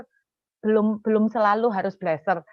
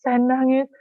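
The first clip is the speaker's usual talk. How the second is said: drawn-out, higher mock wail; retold loud crying; 4 semitones higher, slower than usual. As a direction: stretch the cry word dramatically. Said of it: "saya di sepeda motor teriak".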